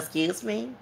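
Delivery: put-on high, soft valley girl question; valley girl accent. Girl answering his Spanish question, valley girl accent. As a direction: imitate a valley girl's upturned accent. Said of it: "she had a violent girl accent".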